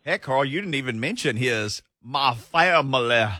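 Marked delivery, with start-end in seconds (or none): 2.0-3.3 a hint of a slow Southern rooster drawl; lightly mock the cartoon rooster, slow; slow mock Foghorn Leghorn quote. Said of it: "he transformed into Foghorn Leghorn".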